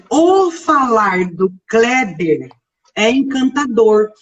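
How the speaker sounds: o falar drawn out slowly; slow example. Shown as a demonstration. Teacher reading a sample sentence, slow. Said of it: "se eu fizer assim".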